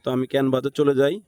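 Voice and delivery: normal talking voice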